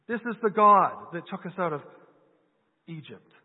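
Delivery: mocking the idea that a golden calf saved them; incredulous mock echo. Preacher echoing the Israelites in disbelief to the congregation, mocking. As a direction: repeat their claim in disbelief, trailing off at the end.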